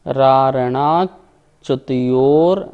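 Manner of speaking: drawn out, syllable by syllable; slow recitation. Shown as a demonstration. Teacher slowly sounding out a hard word. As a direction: stretch the word slowly for students.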